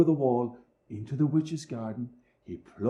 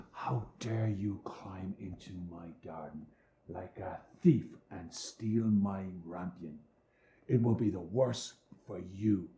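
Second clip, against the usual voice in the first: angry; 5 semitones lower, 7 dB quieter than usual. A narrator's reading. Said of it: "she cried with angry eyes".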